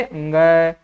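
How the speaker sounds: अंग said as a nasal ng plus a; correct letter pronunciation. Shown as a demonstration. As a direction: sound out अंग as one nasal letter name. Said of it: "क्या बोला जाता है इसे?". (अंग का शुद्ध नासिक्य उच्चारण)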